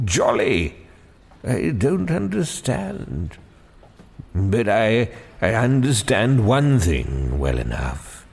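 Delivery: a hint of a weary, puzzled old man; gently voiced tired old Father Christmas; lightly voiced old Father Christmas. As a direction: muse sadly like a fading old spirit. Father Christmas's long lament.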